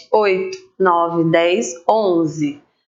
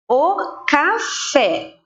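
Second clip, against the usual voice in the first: slow, lifted reading; 6 semitones higher, much slower than usual. Shown as a demonstration. Teacher to pupils, reading o café slowly. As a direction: say "O café" slowly, lifting the pitch. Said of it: "duas sílabas".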